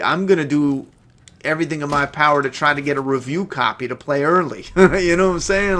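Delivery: eager and loud, laughing; hyped about the release; excited. Real, not acted. Hyped about new game.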